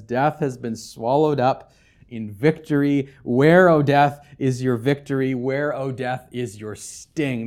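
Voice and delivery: slow, triumphant proclamation; joyful triumph. Acted. Pastor voicing Paul's triumphant cry against death. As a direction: savour the victory over death. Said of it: "Paul joyfully and triumphantly says".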